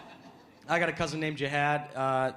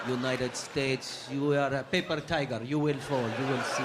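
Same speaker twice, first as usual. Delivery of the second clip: put-on cousin cussing in an Arab accent, slow and grim; Arab accent, brooding curse; 3 semitones lower, slower than usual. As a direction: rant against the United States in an Arab accent. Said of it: "Arabs love to cuss in English".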